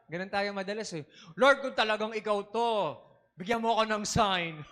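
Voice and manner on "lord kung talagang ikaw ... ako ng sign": lightly voiced believer asking for a sign; mock doubting plea. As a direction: ask for a sign with a laugh. Believer asks God for sign. (pabirong pakiusap ng nagdududa)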